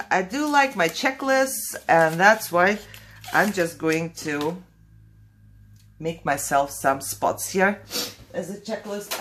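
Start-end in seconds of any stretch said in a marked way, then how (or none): 6.0-9.2 sniffly morning voice; quick sniff. Real, not acted. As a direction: talk with a sniffly nose. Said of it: "I'm sorry for the sniffing".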